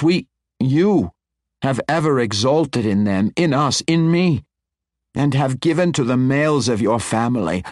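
carried away by his own glory; fervent boast. A narrator's reading. Wizard boasting of his house to the matron, fervent.

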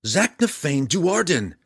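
loud, high, slow yell; yelling back. A narrator's reading. Drizzt answering Belwar's anger, yelling back. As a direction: hurl the name back, each part drawn out. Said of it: "Drizzt yelled back".

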